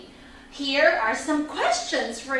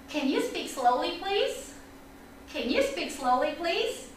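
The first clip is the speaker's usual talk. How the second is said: polite request; 7 dB quieter than usual. Acted. Models the student's polite request.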